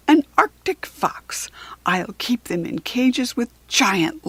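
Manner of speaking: a greedy ice lord boasting in rhyme; menacing storybook villain reading a spell; Jack Frost reciting his curse. Acted. Jack Frost's curse read aloud.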